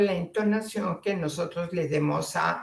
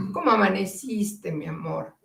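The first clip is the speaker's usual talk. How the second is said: tender morning question. Shown as a demonstration. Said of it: "Y pasa un tiempo y entonces se le dice".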